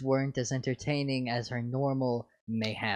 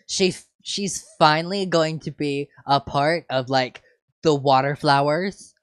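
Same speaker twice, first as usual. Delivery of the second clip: put-on valley girl voice; 4 dB louder than usual. Teen sister voice continues.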